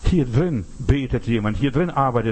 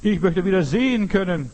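imitated insistent plea, pitch raised; all-out plea; 5 semitones higher than usual. Blind man begs Jesus for his sight, insistent raised plea. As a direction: stake everything on the request, raised and emphatic. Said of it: "geht aufs Ganze".

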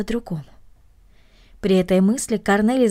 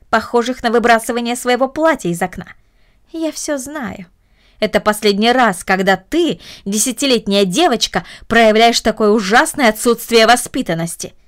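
stern aunt. Acted. Aunt lectures Cornelie.

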